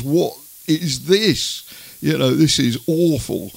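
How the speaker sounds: slow, mildly mocking wife's complaint; a hint of the disgusted wife, drawn out. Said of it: "the third option is she comes in and goes".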